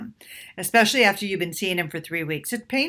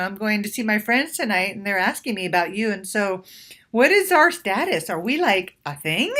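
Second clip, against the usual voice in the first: lighthearted and playful. Shown as a demonstration. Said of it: "make it lighthearted and playful".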